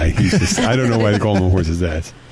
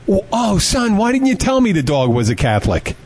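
higher-pitched mock priest, suddenly accommodating; priest's sudden eagerness; 8 semitones higher than usual. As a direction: deliver the punchline as a suddenly obliging priest. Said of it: "And the priest goes".

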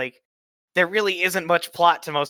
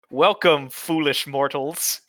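slow, spooky host greeting; slow theatrical villain menace; much slower than usual. Acted. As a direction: welcome them like a haunted house host. Halloween episode spooky greeting.

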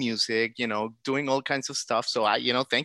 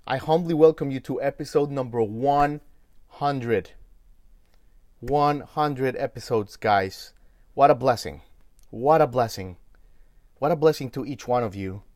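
loud, proud welcome to the crowd; grand entrance announcement; 2 semitones higher, 7 dB louder than usual. Acted. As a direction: proclaim it like a stage host. Host's big show opening.

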